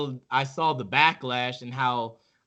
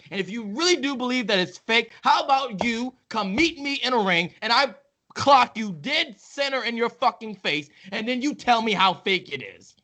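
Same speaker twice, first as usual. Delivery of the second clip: heated rant; 3 semitones higher than usual. Real, not acted. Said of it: "we are aggressive on the three count".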